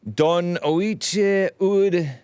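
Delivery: slow, high, drawn-out fake Irish words; mock Irish. Host sounding out an Irish title in a mock accent. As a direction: stretch it out like faking Gaelic. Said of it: "It doesn't sound very Irish".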